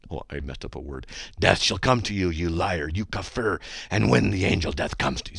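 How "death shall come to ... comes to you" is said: forceful, menacing curse; angry curse-you voice. Shown as a demonstration. Host shows the right way to read hate mail, angry curse. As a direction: pronounce doom on them angrily. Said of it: "That's an angry curse you verse, voice".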